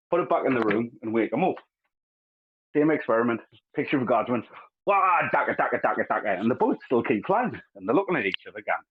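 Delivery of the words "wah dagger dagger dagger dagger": a mock orc charging in; a hint of a battle-crazed orc; orc war cry. Orc voiced in retold joke.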